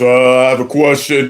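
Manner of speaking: put-on, very low, big grown man's voice. Retelling someone getting up to ask a question: imitating a deep voice. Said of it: "get up there with a deep voice".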